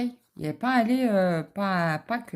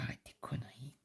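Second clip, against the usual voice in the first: whispered dismissive retort, much softer; husband's retort; 5 semitones lower, 16 dB quieter, faster than usual. Retold or imitated. Quoting her husband telling her to stop, whispered. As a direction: hush it like a sceptical husband.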